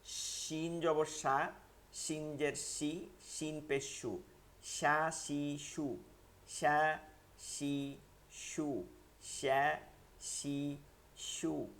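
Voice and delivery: সা, শি, সু with a full airy "sh", slowly spaced; palatal sh. Shown as a demonstration. Teacher drilling shin for Bengali learners, pure palatal sh. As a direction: draw out the sh in শিন, সা, শি, সু. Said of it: "একদম তালে বস্বর উচ্চারণ".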